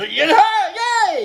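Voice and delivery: high little celebratory cheer; mock cheer. Host cheering himself for a self-hug, playful cheer. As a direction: pitch it up into a playful yay.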